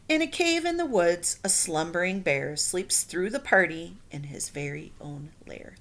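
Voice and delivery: put-on lively read-aloud to children; storybook reading. A narrator's reading. Teacher reading a picture book to her class. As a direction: read it like story time for kids.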